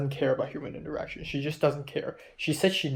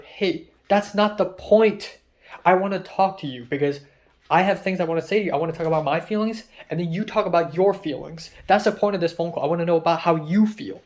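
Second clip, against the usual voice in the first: raised insistent pleading; 4 semitones higher, 5 dB louder than usual. Retold or imitated. Pleading with her on the phone.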